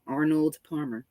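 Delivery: slow, deliberate "Arnold Palmer"; very slow, careful. Shown as a demonstration. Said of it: "I have to say it very slow".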